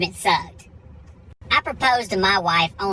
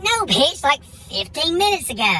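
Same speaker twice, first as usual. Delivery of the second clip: exasperated retort; 8 semitones higher than usual. Retold or imitated. Mock retort to the waitress.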